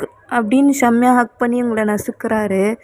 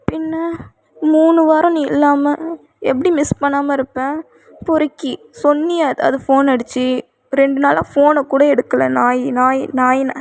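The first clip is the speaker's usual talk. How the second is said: scolding; 3 semitones higher than usual. Acted. Wife scolds absent husband.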